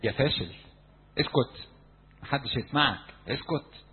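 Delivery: a mock scornful voice; discouraging voices. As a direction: voice the inner critic jeering. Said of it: "أصوات الإحباط". (صوت محبط ساخر)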